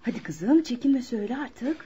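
soft whisper urging her on; whispered coaxing. Acted. Mother whispers to her daughter to speak up, hushed. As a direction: gently whisper encouragement to the shy girl.

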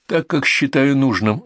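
slow, firm cut-off; curt retort. Acted. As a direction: shut the neighbour down firmly. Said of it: "отрезал Ильинский".

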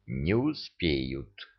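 low, slow, soft and grim; gloomy. A narrator's reading. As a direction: say it darkly. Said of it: "мрачно сказал Амар".

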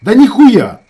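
very loud, high, falling on ніхуя; furious yell. A narrator's reading. Ravzan yells before punching his brother, furious. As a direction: yell it and swing.

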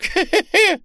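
loud, high-pitched odd cackle; strange laugh. A narrator's reading. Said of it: "необычно засмеялся".

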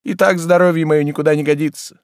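high, loud reproachful scolding; indignant master. Acted. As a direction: scold the servant in wounded outrage. Oblomov scolds Zakhar.

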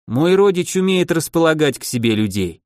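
plain reading voice

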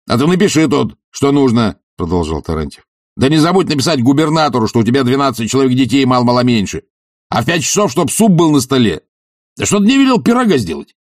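a bossy guest's rapid bluster; Tarantyev's brash orders. Acted. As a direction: rattle off demands.

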